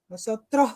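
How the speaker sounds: final S of "Nosotros" breathed out like a Spanish J; aspirated final S. Shown as a demonstration. Actress shows interviewer how Venezuelans turn S to J, aspirated final S. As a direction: say "Nosotros" ending in an h sound, "nosotroh". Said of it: "las convertimos en J".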